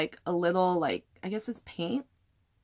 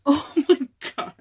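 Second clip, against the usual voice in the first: high, loud burst of disbelief; freaking out; 8 semitones higher, 8 dB louder than usual. Real, not acted. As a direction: cry out, thrilled and stunned. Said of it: "I'm freaking out".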